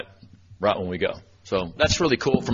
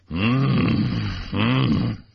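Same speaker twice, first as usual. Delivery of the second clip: playful hummed mm of delight over a cookie; yummy sounds. Retold or imitated. Teacher at lunch teasing third graders, yummy humming. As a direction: hum like the cookie is delicious. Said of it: "I started making yummy sounds like".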